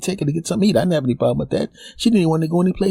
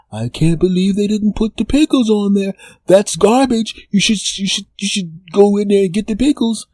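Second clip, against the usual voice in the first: lightly voiced annoyed girlfriend, a bit higher; mild indignant girlfriend; 4 semitones higher than usual. Girlfriend fussing to him about pickles, mildly indignant. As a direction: complain the burger is garbage.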